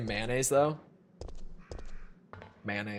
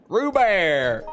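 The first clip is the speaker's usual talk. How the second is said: laughing, higher and louder Rubeer; laughing repeat; 6 semitones higher, 4 dB louder than usual. Shown as a demonstration. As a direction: giggle the silly word Rubeer out. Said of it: "It's pronounced Rubeer".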